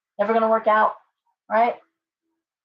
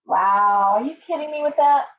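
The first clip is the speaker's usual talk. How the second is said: normal talking voice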